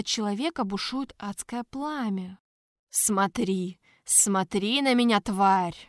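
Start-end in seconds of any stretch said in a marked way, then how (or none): 2.9-5.8 rasping, strained voice; hoarse rasp. Acted. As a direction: rasp it out like a burnt mutant. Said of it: "прохрипел Тарквимада".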